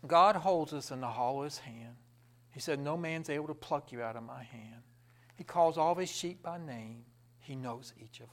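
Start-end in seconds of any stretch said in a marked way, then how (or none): 2.8-4.8 soft, whispered and intimate; a gentle whisper of God's assurance; whispered promise. Acted. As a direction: hush it like a secret comfort.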